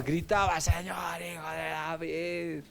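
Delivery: long drawn-out mock cry, held on one note; imitated crying out. Teacher imitates blind Bartimeo calling to Jesus, drawn-out cry. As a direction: call out slowly, stretching every word, without real volume. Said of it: "el ciego Bartimeo clamaba".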